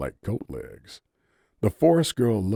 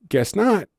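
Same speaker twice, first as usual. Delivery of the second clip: smiling; 13 semitones higher, 7 dB louder than usual. A narrator's reading. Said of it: "she said through a smile".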